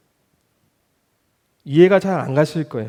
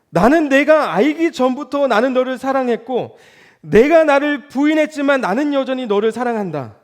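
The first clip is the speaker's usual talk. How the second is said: higher, louder, earnest plea of love; sincere loving declaration; 9 semitones higher, 3 dB louder than usual. Acted. Jesus telling Peter he still loves him, fervent and sincere. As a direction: pour out unconditional love, heartfelt and lifted.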